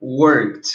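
"worked" as a single syllable, work-t. Shown as a demonstration. Teacher shows the changed ending, "worked" said work-t. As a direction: end "worked" on a clear T. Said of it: "Então, fica".

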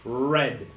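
"Red" with a growled English R. Shown as a demonstration. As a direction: start "Red" with a dog-like growl. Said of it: "som de cachorro bravo".

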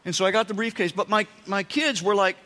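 normal talking voice

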